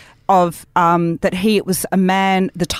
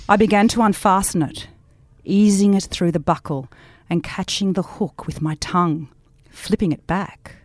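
reading as Judith. Acted. Friend reads the book's belt scene in Judith's voice, lightly sultry. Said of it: "read it out with the voice of Judith".

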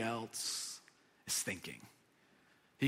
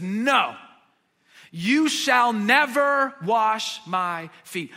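slow, louder, firm protest; indignant refusal; 3 semitones higher, 6 dB louder, much slower than usual. Retold or imitated. Peter refusing to let Jesus wash his feet, slow and firm. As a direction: plant your feet and refuse each word slowly. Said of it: "still indignant".

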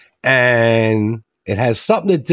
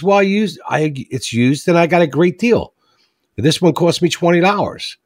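put-on teen voice; 7 semitones higher than usual. Joke teller voicing the teen explaining the deal. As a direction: sell the great deal like a proud kid. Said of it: "He goes".

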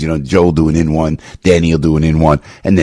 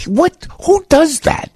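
much higher, slow, pressing the question; impassioned outburst; slower than usual. Real, not acted. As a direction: demand it of the audience with fire. Impassioned rant about his father.

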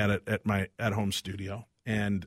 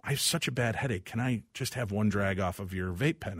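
softly spoken, subdued plea; pained request; 2 semitones lower, 5 dB quieter than usual. Retold or imitated. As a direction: ask gently through a bad headache. Acted migraine plea to wife.

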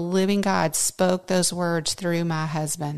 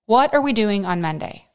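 re-enacted panic, pitched up; mildly frantic retelling, higher at first; panicked; 5 semitones higher, 3 dB louder than usual. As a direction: act out fretting over what happens next. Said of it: "I'm panicked".

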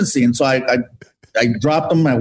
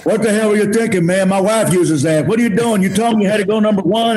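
mildly indignant retold scolding, pitched up; a touch of imitated outrage; mock angry; 4 semitones higher than usual. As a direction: imitate an angry host demanding an explanation. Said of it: "and he's mad".

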